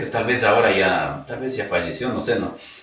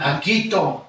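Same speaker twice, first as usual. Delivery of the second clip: laughing mock call; 9 semitones higher, slower than usual. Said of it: "qué vergüenza que me daba gritar".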